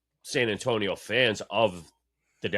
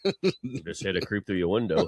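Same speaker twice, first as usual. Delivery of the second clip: laughing. Real, not acted. Joking, laughing at friend.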